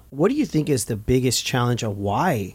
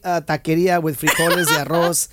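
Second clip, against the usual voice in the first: laughing; 2 semitones higher than usual. Retold or imitated. Mimicking phone request while laughing.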